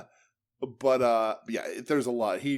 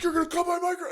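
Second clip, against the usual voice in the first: high squeaky mock voice of an indignant wrestler; shrill parody of a whiny promo, much higher; faster than usual. Mocking a wrestler whining about his dead mic, high squeaky voice. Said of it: "And he's like".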